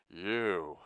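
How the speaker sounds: gleeful villain recognition; cheering. A narrator's reading. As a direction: cheer as you single someone out. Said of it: "Lloyd cheered".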